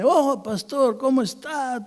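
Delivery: a tipsy man hailing his pastor; drunk and chatty. Retold or imitated. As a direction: greet him like a talkative drunk. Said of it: "pues vino todo hablador".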